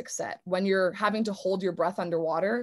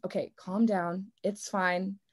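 calming self-talk. Retold or imitated. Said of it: "you tell your brain".

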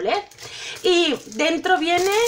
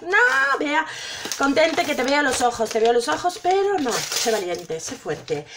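holding back tears. Real, not acted. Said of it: "que no, no voy a llorar".

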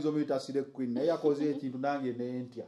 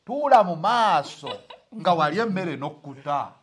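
laughing, drawn out; 5 dB louder, slower than usual. Shown as a demonstration. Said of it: "restates line, slower, laughing".

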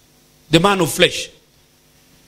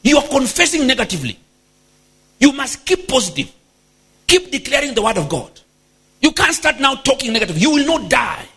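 Peter earnestly correcting, slightly higher pitch; acted-out scolding, raised pitch; mock rebuke; 3 semitones higher than usual. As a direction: imitate a presumptuous rebuke, pitched a bit up. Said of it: "He now started rebuking Jesus".

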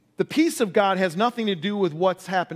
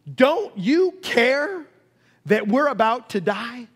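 mock-panicked, high, slow accusing plea; freaking out; 5 semitones higher, slower than usual. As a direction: act out frightened, accusing disciples. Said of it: "the disciples are freaking out".

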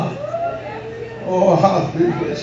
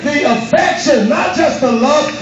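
slow, high shouted preaching; preaching at full force; 3 semitones higher, slower than usual. Acted. Preacher urging the church to crucify the flesh, shouting slowly. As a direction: drive every phrase home.

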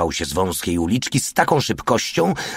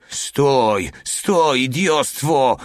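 high-pitched shouts to halt; narrated screaming; 6 semitones higher, much slower than usual. A narrator's reading. Soldiers threaten the oncoming tank, high acted shouting. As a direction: call out urgently, pitch jumping up. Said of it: "wrzeszczeli i grozili gestami".

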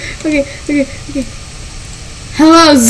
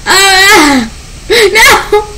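panicked cry; 5 semitones higher, slower than usual. Real, not acted. Gamer yelping as she dies in game. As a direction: yelp as the character dies.

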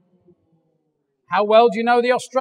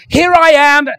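louder, higher burst of enthusiasm; jumping up excited; 5 semitones higher, 8 dB louder than usual. Retold or imitated. Jenna jumping up front to share good news, excited. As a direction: announce yourself like you just leapt to the front. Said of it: "She's like".

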